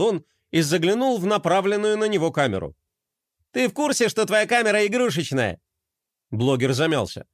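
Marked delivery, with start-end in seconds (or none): 3.5-5.6 a hint of a cheeky skater kid; lightly voiced skater. Skater toy teasing the blogger about his camera, cheeky. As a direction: tease him lightly.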